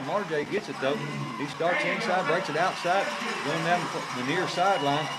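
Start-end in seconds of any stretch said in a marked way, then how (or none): 1.4-5.1 rising excitement on the return; excited play-by-play. Real, not acted. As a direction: call the run with building energy.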